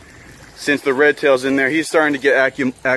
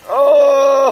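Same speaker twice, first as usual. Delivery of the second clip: surprised; 9 semitones higher, 5 dB louder than usual. Real, not acted. Sudden surprise at the fish.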